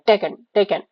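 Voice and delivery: clipped quick reading of टेकन, vowel swallowed. Shown as a demonstration. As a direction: say टेकन fast, almost without the middle vowel. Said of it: "बहुत जल्दी हम लोग उसको read करते हैं".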